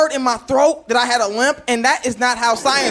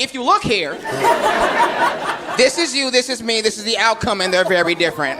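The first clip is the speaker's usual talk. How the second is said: lecturer presenting chart. Retold or imitated. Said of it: "like I had some type of bar graph behind me".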